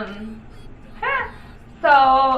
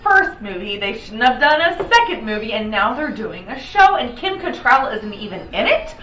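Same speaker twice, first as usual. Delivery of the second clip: exasperated rant; 3 dB louder than usual. Retold or imitated. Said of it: "Because I was".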